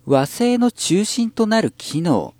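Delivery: put-on high, slow haughty rich girl; Kurosawa Dia. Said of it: "ラブライブサンシャインの黒沢ダイヤさん".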